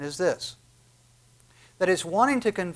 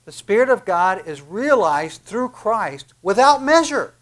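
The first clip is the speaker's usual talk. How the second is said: preaching louder; 3 semitones higher, 6 dB louder than usual. Acted. Preacher builds to a climax.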